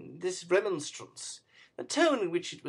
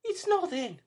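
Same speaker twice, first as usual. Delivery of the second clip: put-on high, light young woman's voice; a lightly voiced weary girl; girl's reply; 13 semitones higher than usual. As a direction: brush it off lightly. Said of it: "said the girl".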